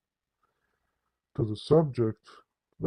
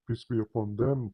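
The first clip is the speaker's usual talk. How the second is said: mock-reverent, measured blessing; slow and careful. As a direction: imitate a careful, respectful blessing. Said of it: "very slowly and very carefully".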